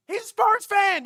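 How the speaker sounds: high-pitched, loud accusing shout; mock mob yell. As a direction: call out the enemy like a street mob. Imitating fans hunting a rival.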